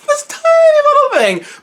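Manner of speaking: laughing. Real, not acted. Gushing over tiny powerful gun.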